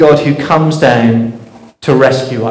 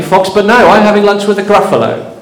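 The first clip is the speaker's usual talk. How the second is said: little mouse; 7 semitones higher than usual. Acted. Mouse answers fox in story.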